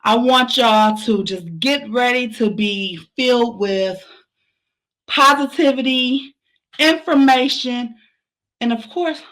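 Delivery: breathless from running and dancing; out of breath, gasping between phrases. Real, not acted. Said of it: "I'm out of breath 'cause I was, like, running".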